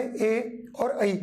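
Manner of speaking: ए and ऐ each stretched out very slowly and kept apart; slow vowel demo. Shown as a demonstration. Teacher contrasting ए and ऐ for students, very slow. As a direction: draw out ए and ऐ very slowly so the difference is heard. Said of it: "इनके रूप क्या हो गए?".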